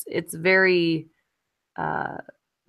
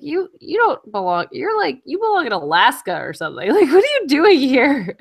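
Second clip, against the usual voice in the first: high, incredulous questioning with laughter breaking in; playful, high-pitched disbelief; mock indignation at elk; 7 semitones higher, 5 dB louder than usual. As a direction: challenge an out-of-place animal, pitched up and amused. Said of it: "I was like".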